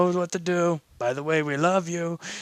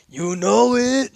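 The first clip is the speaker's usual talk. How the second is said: proud boast; 7 semitones higher, 6 dB louder, slower than usual. Acted.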